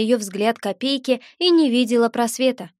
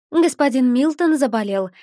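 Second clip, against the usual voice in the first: feigned regret; 2 semitones higher than usual. Acted. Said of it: "с наигранным сожалением".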